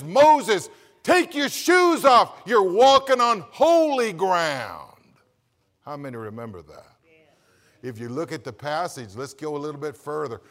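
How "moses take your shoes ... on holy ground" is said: loud, high, slow divine voice; the voice from the bush, commanding and slow; voice of God from the bush. Acted. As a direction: boom it out as God from the burning bush. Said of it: "voice from the bush says".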